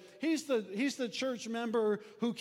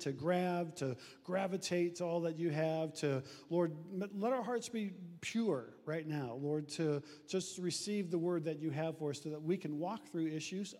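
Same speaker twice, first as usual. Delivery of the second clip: lower-pitched spoken prayer; 5 semitones lower than usual. Real, not acted. Pastor praying with his congregation before preaching, prayerful. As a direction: pray simply over the congregation, pitched low.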